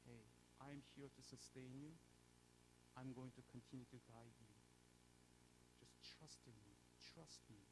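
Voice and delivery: soft, gentle reassurance; gracious voice of God. Retold or imitated. God gently reassures the discouraged believer, soft and gracious. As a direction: speak like God comforting a failing servant. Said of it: "a gracious voice of the Lord".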